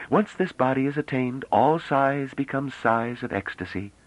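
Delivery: high, solemn pronouncement. A narrator's reading. Young woman tells admirer of her body, solemn. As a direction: declare it gravely in a high voice. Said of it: "said the woman solemnly".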